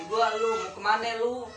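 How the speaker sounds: light Betawi street talk with "kemana" ending in an e sound, like "kemane"; a casual Jakarta Betawi demo, not fully put on; Betawi accent. Shown as a demonstration. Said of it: "Gitu ya orang Betawi bicara". (logat Betawi ringan, "kemana" diucapkan "kemane")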